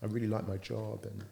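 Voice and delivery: a touch of soft, sheepish mumbling. Retold or imitated. Employee asking boss if he's happy with her, sheepish and soft. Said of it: "went a bit sheepish".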